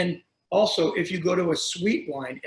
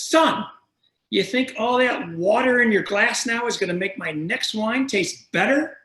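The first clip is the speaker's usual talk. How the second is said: imitating a scolding old guy, pitched up; retold mad scolding; 4 semitones higher than usual. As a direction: retell it as a peeved old man's telling-off. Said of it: "he was mad".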